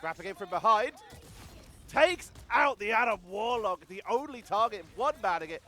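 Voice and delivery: excited caster, voice lifting; live esports play-by-play. Real, not acted. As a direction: call the action with rising urgency.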